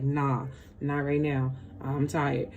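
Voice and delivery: low, soft weary refusal; acted sluggish excuse; tired refuser. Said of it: "You be like".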